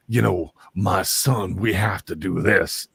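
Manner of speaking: lightly voiced Southern colonel type; a hint of an old-time Southern gentleman; Will Ferrell. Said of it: "he's talking like this".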